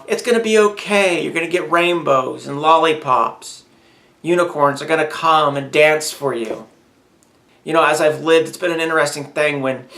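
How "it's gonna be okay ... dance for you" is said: a hint of saccharine comfort, tongue in cheek; mocking sugary reassurance. Mocking a naive believer's fairy-dust promise to the listener, sing-song. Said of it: "sprinkle a little fairy dust on us and say".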